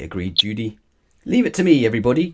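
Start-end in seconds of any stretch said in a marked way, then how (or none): 1.2-2.3 high, louder eager call. A narrator's reading. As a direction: shout it across to the family. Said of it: "called Paddington".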